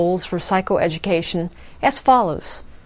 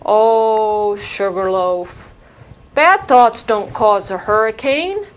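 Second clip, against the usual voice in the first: put-on wise old sheepdog; slower than usual. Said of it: "I'm a wise old sheepdog".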